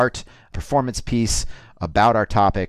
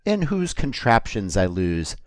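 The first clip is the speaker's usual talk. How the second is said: poem recital. Acted. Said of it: "get into the poetic zone".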